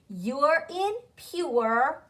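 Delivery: "You're in pure" drawn out slowly, sound by sound; sound drill. Shown as a demonstration. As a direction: say YOO-ER as in PURE for learners to repeat. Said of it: "Say that with me".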